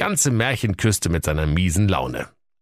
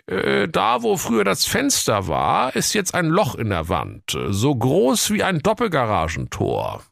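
high, officious cop voice; nosy policeman, pitched up; police commissioner voice; 10 semitones higher than usual. Acted. (hohe, wichtigtuerische Kommissarstimme)

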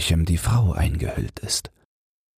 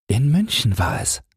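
laughing woman; 7 semitones higher than usual. A narrator's reading. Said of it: "wirft sie sich plötzlich nach vorn und lacht".

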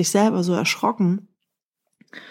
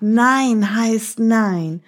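very slow, firm "Nein heißt nein"; much slower than usual. Shown as a demonstration. Teacher demonstrates the mouse's firm no. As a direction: stretch "Nein heißt nein" slowly, every word stressed. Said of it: "als die Maus ganz laut gerufen hat".

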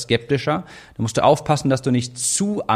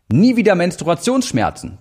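punchy, higher ad headline voice; clickbait video narrator; 6 semitones higher than usual. Shown as a demonstration. Reading out an example bullet.

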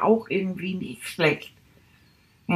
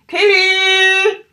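loud, higher call across the room; 10 semitones higher, 6 dB louder than usual. Acted. Rat calling out to his friend Tilly, loud. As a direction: shout her name to get her attention.

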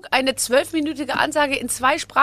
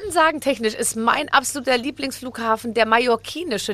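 ordinary talk

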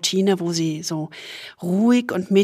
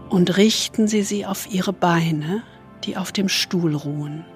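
soothing spa whisper; 4 dB quieter than usual. Acted. Leads a body scan meditation.

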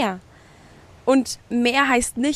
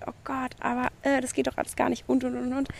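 mock panicky head voice; 6 dB quieter, faster than usual. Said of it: "unser Kopf rebelliert ... schreit da gerne rum".

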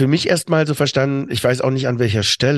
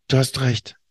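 innere Einsicht. Retold or imitated. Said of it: "gab's in mir so ein ganz tiefes".

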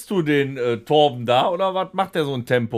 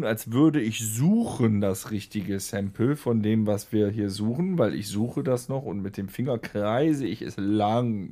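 very slow talking; 3 semitones lower than usual. Shown as a demonstration. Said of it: "indem du jetzt ganz langsam redest".

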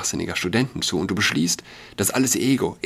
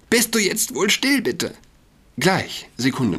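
shrieking; 11 semitones higher than usual. Acted. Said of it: "Franny kreischte". (laut kreischend, sehr hoch)

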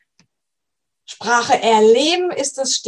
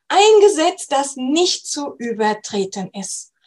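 reciting a quote; 2 semitones higher than usual. Shown as a demonstration. Coach reading a favourite quote aloud to learners, solemn recital. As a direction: read it out like a creed. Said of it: "Lass uns bitte gerade mal zusammen ... dieses Zitat lesen".

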